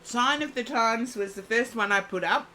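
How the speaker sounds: talking through a mouthful of food; mouth full. Real, not acted. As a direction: speak while chewing dinner. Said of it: "talking with my mouth full".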